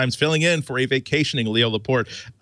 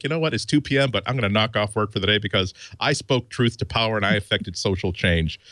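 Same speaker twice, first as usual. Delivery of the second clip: mock grandiose. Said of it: "I felt like".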